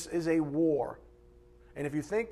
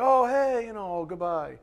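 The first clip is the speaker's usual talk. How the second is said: mock breezy goodbye, starting high and loud; breezy farewell; 5 semitones higher, 4 dB louder than usual. Preacher mimics someone leaving church shaking hands, mock breezy goodbye. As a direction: toss off a cheery parting, dropping at the end. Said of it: "shaking hands and kissing babies on the way out".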